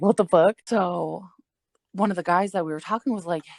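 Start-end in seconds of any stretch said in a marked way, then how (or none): 0.0-0.6 mock disbelief.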